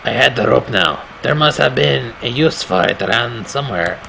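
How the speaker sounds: put-on lightly accented storyteller voice; narrator in a put-on accent. Player voicing the game's hero, light put-on accent. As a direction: read the game narration in the hero's accent. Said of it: "that's the accent I want him to speak in".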